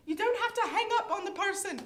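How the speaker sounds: fast, high Scottish scolding; loud, hammed-up Scottish; Scottish accent yell. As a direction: shout it in put-on Scottish. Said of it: "screamed at her in a Scottish accent".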